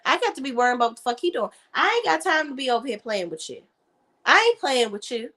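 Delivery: high, fed-up mock rant; imitating Tiny. Tiny brushing off Tamar, high fed-up mimic. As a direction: brush her off, exasperated. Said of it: "And Tiny is like".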